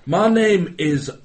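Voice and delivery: a weak put-on Scottish accent; bad Scottish accent. Mock host of a knitting show in Scottish accent. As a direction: lightly fake a Scottish accent. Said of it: "why my Scottish accent's so bad".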